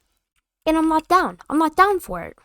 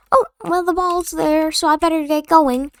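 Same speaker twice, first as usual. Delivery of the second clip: put-on higher, sheepish kid making excuses; mock kid retreat; 5 semitones higher than usual. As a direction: play the kid chickening out. Kid backing out of fight.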